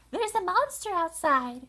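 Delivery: high, slow frightened report; scared Baby. A narrator's reading. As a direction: tell sister about the monster. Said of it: "said Baby".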